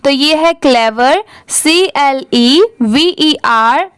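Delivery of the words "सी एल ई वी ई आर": slow letter-by-letter spelling of "सी एल ई वी ई आर"; spelling out letters slowly. Shown as a demonstration. Teacher spelling a word for students, slowly letter by letter. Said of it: "आप भी मेरे बाद हर एक letter को repeat करिए".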